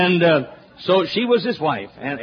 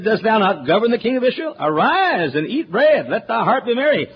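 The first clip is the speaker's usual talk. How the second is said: mock coaxing Jezebel; 6 semitones higher than usual. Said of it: "she said".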